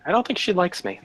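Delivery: chuckling it out; laughing. Real, not acted. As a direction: laugh through the line. Repeats it with a laugh.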